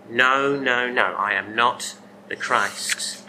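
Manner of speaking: slow, firm "No, no, no, I am not the Christ"; a firm slow no from John to the crowd; emphatic denial. Retold or imitated. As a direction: talk them down slowly and firmly, leaning on "not". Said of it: "John emphatically talks them down".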